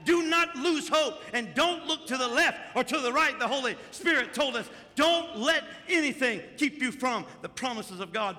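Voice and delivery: fervent preacher's build; preaching. Acted. Pastor preaching to the congregation, fervent. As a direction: preach it to the church with fire.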